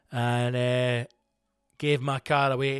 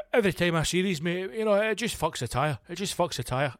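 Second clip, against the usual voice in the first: a lightly raised mechanic voice; higher, knowing tradesman; RAC guy; 5 semitones higher than usual. Retold or imitated. Mechanic repeating his tyre line, lightly higher. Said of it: "all he kept saying to me was".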